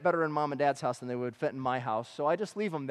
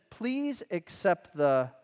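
slow reading; much slower than usual. Shown as a demonstration. Preacher reading the verse to the congregation, slow. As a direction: slowly read verse, trailing off before the key word. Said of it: "do you see the next word there?".

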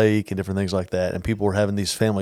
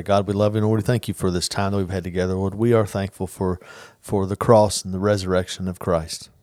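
spoken prayer; 3 semitones lower, 3 dB quieter than usual. Real, not acted. Leads a closing prayer.

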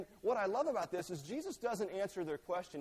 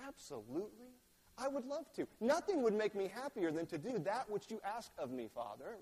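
sugary fake compliance; 3 semitones higher than usual. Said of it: "telling his dad what his dad wants to hear".

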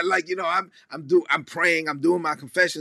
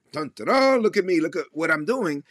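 mocking self-righteous boaster. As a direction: parody a show-off pleased with himself. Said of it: "they're like".

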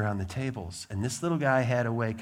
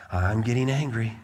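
lightly voiced little boy, starting to simmer; imitating a simmering child. Preacher imitates a frustrated kindergartner, whistle just starting, restrained. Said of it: "you can hear the whistle start picking up".

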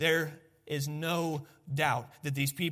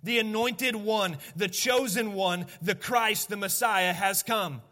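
slow, loud triumphant proclamation; proclaiming; 3 semitones higher, 4 dB louder, slower than usual. Real, not acted. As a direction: declare each title slowly and loud. Proclaiming the Messiah's arrival.

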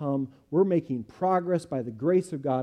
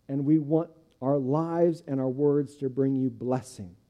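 earnest, steady voice of a pastor's prayer; closing prayer. Acted. Pastor prays for the church, sincere prayer voice. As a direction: pray it over the congregation, sincere and unhurried.

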